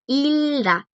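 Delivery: "Hilda" said with the G left silent. Shown as a demonstration. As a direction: draw out "Hilda", no G sound before the D. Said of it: "No se pronuncia Ilgda, es Hilda".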